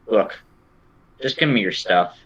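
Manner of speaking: flat metallic robot voice; metallic voice filter. Acted. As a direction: speak like a machine through a speaker. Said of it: "in metallic voice".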